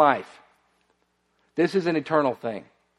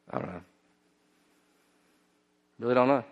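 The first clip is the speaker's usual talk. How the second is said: quiet; 5 semitones lower, 9 dB quieter, much faster than usual. Retold or imitated. Retold man's quiet answer.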